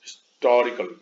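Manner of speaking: हिस्टोरिकल in a British accent, TOR stressed. Shown as a demonstration. Teacher repeating it for the pupils, British accent. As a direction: lean on TOR as a British speaker would. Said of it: "British accent वाले लोग".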